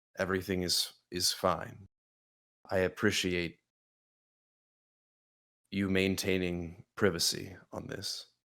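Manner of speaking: barely audible, very quiet murmur under the breath. Catching up with Adelaide in character and speaking under the breath: speaking as quietly as possible. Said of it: "as quiet as I can manage".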